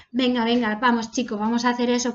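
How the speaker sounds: rally the team with a quick push; upbeat urging. Shown as a demonstration. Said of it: "lo vas a hacer un poquito más rápido".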